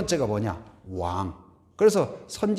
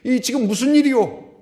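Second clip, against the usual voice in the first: blind man asking; 9 semitones higher, 6 dB louder than usual. Retold or imitated. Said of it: "바디메오가 그랬어요".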